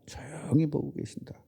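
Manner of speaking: a soft murmured reminder; hushed. Shown as a demonstration. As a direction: say it under the breath, softly. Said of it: "조용히 보신다는 거 알고 계셔야 돼요".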